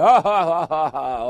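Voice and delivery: loud, spelled-out ha ha ha; mock group laugh. Retelling how everybody laughed at him, mock laugh. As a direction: imitate the crowd's loud laughter.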